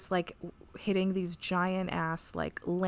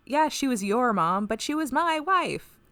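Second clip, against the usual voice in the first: hammed-up wounded husband, louder and higher; mock melodrama; 5 semitones higher, 6 dB louder, slower than usual. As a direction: overplay the grief, stretching the key words. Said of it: "It's very melodramatic".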